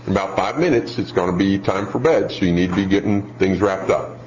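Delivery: even, matter-of-fact parent; calm warning. Acted. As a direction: give a child an unruffled heads-up. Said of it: "calm voice".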